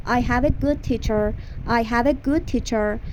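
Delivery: slow teacher demo of the sentence; slow model sentence. Shown as a demonstration. Teacher modelling English for Persian students, slow. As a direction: say it slowly for repetition.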